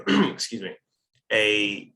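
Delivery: hoarse, voice giving out; raspy voice cracking away; losing voice. Real, not acted. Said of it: "sorry, I'm losing my voice now".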